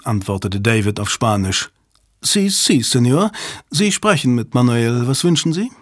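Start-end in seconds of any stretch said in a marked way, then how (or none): 2.2-5.7 affected clerk. Acted.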